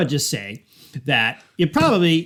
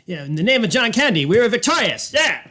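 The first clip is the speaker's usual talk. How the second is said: cheering Canadian; 5 semitones higher than usual. Acted. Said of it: "just gonna stand up and just say".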